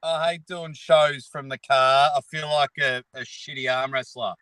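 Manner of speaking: stuffy blocked nose. Real, not acted. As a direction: talk through a blocked nose. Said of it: "I got a blocked nose".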